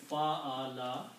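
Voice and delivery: "Fa'ala" with a long first a; Arabic pattern Fa'ala. Shown as a demonstration. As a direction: stretch the a in "Fa'ala". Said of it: "put a fatha on each of them".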